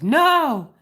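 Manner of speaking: loud, high, drawn-out mock cry; exaggerated shouted refusal; retold indignant no.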